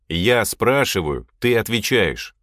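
slow, measured rule-setting; firm command. Acted. Boss stops the questions, firm command. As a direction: lay down the rule firmly.

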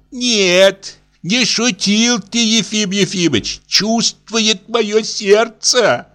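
a hint of an offended old lady; old matron complaining of ingratitude; old woman voice.

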